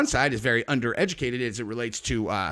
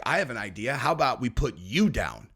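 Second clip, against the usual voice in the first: lower-pitched imitated threat; lowered voice, mock-menacing; menacing suggestion; 4 semitones lower than usual. Voices dangerous people's menacing reply.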